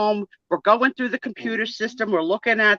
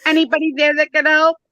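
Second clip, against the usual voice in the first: mock phone call; 3 semitones higher than usual. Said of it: "I called".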